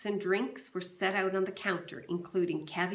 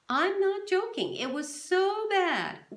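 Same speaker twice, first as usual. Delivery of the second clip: wife insists; 12 semitones higher, 5 dB louder than usual. A narrator's reading. Wife insists, laughing story.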